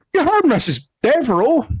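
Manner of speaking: high-pitched prod to the men; sharp order. Acted. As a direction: call it out impatiently to your crew. Guard barks at his men.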